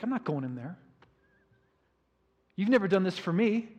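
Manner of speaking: resentful son ranting at his father; angry older son. Retold or imitated. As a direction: complain bitterly, building in outrage. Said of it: "the son is so mad".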